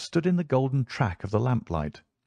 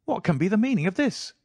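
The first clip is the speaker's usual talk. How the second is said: shocked cry; 11 semitones higher than usual. A narrator's reading. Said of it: "he cried".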